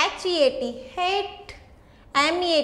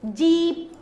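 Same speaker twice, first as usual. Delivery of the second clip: जीप with the ई held long; long vowel; 2 semitones higher, much slower than usual. Shown as a demonstration. Teacher showing children the long sound, जीप drawn out. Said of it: "sound किसका आ रहा है इसमें long".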